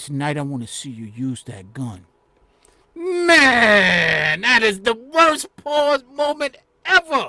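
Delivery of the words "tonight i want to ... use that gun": low, hushed, confiding stage whisper. Retelling what was said into a club security guard's ear: retelling a half-whisper. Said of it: "I whisper in his ear and say".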